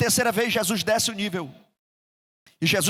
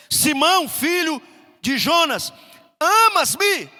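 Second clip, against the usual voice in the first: insistent question; 6 semitones higher, 5 dB louder, slower than usual. Retold or imitated. Jesus asking Peter again.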